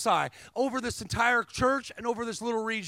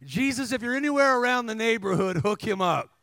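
prayer; 4 dB louder than usual. Retold or imitated. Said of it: "This is my prayer".

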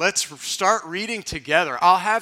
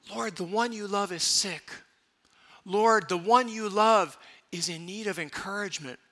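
model prayer; 2 semitones higher than usual. Shown as a demonstration. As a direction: pray it with conviction. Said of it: "We can say".

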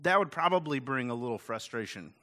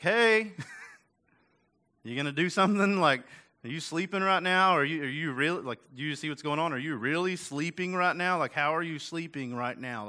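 exasperated plea. Retold or imitated. Disciples' frustrated plea to Jesus.

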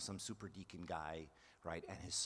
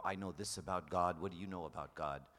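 louder, smug know-it-all brag; mock arrogance; 4 dB louder than usual. Imitating a proud theology graduate, smug and loud. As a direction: show off like a proud scholar. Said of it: "a source of even pride and arrogance".

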